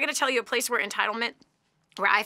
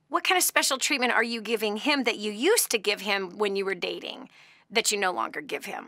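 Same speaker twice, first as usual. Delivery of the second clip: stern radio host. Retold or imitated. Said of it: "and it was".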